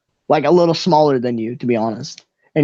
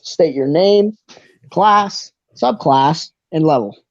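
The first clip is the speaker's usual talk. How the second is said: ticketmaster; 2 semitones higher, slower than usual. Acted. Ticketmaster questioning Palm item by item, lightly put-on official voice. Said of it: "he walks over to Palm".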